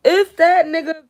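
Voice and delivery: a real loud, slow, furious yell; angry shout. Real, not acted. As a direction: yell it out slowly as a warning. Shouted threat in rant.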